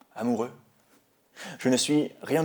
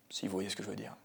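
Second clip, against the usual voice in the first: very soft, near-whispered confidence; whispered aside; 2 semitones lower, 11 dB quieter, faster than usual. Acted. Confiding what he means after his regrets, whispered. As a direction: let it drop to a whisper.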